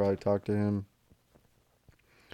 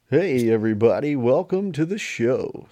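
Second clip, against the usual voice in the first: vintage cartoon voice; 4 semitones higher, 8 dB louder than usual. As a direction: stretch it out like an old cartoon host. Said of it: "what's going on with that cartoon voice".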